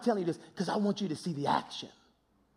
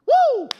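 high, loud preacher's whoop; sudden high whoop of excitement; exultant whoop; 17 dB louder than usual. Real, not acted. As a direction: let out a joyful cry. Preacher's exultant cry mid-sermon.

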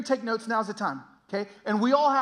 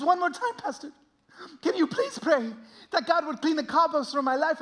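put-on higher, accented imploring voice; pleading old lady; 6 semitones higher than usual. Miss Ramirez begging pastor one more time, pleading. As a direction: lightly voice a tearful repeat plea. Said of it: "she's still crying".

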